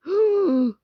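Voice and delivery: high, drawn-out play gasp; pretend gasp. Reacting in a pretend quarrel, high gasp.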